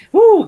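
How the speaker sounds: high, loud "whoo"; acted whoo. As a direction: let out a sudden high whoop of reaction. Acts out reaction to a debacle.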